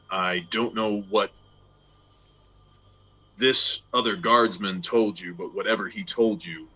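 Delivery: bar their path with cold authority; stern guardsman. Acted. DM voices ebony guardsman.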